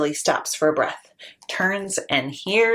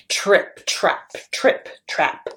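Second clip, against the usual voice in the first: heavy hoof steps; slower than usual. Shown as a demonstration. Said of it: "Big Billy's huge hoofs".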